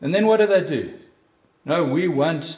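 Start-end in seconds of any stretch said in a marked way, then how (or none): 1.7-2.4 slow mock grumble; grumbling. Preacher imitating Israelites demanding other food, mildly grumbling. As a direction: draw it out, lightly voiced complainers. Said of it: "They grumble".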